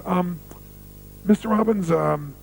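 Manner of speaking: polite, faltering approach with long pauses; hesitant request. Retold or imitated. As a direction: imitate someone shyly working up to an invitation. Sponsor hesitantly asks him to dinner.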